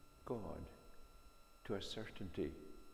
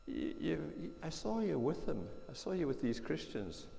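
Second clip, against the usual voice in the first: higher and louder, pointing the finger; insistent accusation; 7 semitones higher, 4 dB louder than usual. Acted. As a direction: accuse him, voice up high. Accuser insists on seeing Peter.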